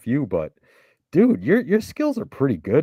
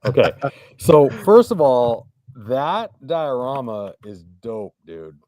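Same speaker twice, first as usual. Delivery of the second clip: muffled inside a helmet; speaking from under a helmet; 6 dB louder than usual. Real, not acted. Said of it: "I got a helmet on".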